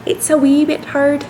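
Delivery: a light put-on Irish accent; playful half-hearted Irish accent. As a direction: toss it off in a mild Irish lilt. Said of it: "Irish is a little hard".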